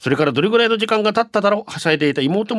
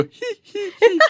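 creepy giggle. Retold or imitated. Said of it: "笑いが止まらなくなり".

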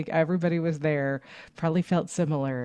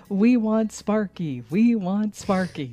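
slow, raised crowd-chant imitation; mild mock yell; 5 semitones higher, 4 dB louder than usual. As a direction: imitate a crowd's chant, louder but not full shout. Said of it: "So they started yelling".

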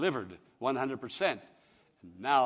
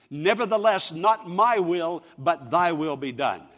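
preached prayer; 3 semitones higher, 8 dB louder than usual. Retold or imitated. Voices Jesus' prayer in preaching.

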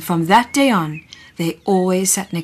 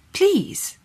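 high, sweet pleading please; asking nicely; 13 semitones higher than usual. Acted. Teacher coaxing the shy dinosaur, high and sweet. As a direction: coax him gently up high. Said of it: "the teacher asked nicely".

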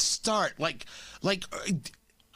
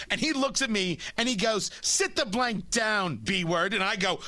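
lightly voiced wife, retelling her rant with a bit of edge; a hint of an indignant fan's wife, not much changed; impression of the angry wife. Host mimics the wife's Instagram rant, lightly indignant. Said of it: "That's a pretty good impression".

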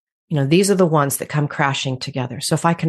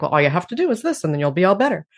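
glib oversimplifying; 3 semitones higher, faster than usual. Retold or imitated. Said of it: "it can sound like".

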